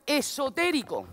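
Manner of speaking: ESOTÉRICO stretched out slowly; drawn-out emphasis. Acted. Comedian unveiling what choirs mean to her, drawn out. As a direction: draw out "esotérico" syllable by syllable. Mock-mysterious punchline word, drawn out.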